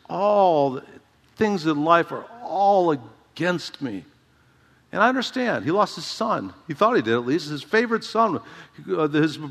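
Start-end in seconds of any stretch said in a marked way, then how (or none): 0.1-4.0 self-pitying Jacob. Retold or imitated. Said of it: "Jacob's view is".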